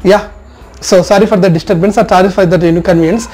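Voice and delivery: slow, careful, lightly acted participant cutting in politely; polite group discussion interjection. Shown as a demonstration. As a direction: ease into the discussion, drawing out each phrase. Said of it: "మధ్యలో మాట్లాడితే". (నెమ్మదిగా, మర్యాదగా మధ్యలో కలుగజేసుకోవడం)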